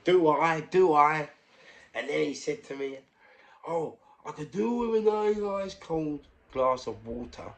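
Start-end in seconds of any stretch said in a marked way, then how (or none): 0.0-1.3 loud, high exclamation; imitated emphatic reply. Old postman remembering heavy bags, loud imitated agreement. Patient's keen reply, acted out. 3.7-7.5 high, slow, drawn-out request; imitated patient. Patient asking for water, slow high imitation.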